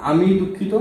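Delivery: আমি জোর দিয়ে, উঁচু সুরে; "আমি" শব্দে চাপ দাও; stress on আমি. Shown as a demonstration. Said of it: "আবার কে দুঃখিত?". (আমি শব্দে জোর)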